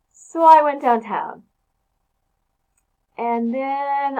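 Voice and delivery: slow, drawn-out storytelling with long pauses; dragged-out rambling. Shown as a demonstration. Teacher demonstrating comma-splice talk, slow and rambling. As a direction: stretch it out as if thinking what comes next. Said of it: "you just kinda drag it out".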